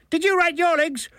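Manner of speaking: high, accusing Dublin voice; Dublin accent. A narrator's reading. Milligan quizzes the author, accusing Dublin accent. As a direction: challenge it in indignant Dublin tones. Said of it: "It was a Dublin accent".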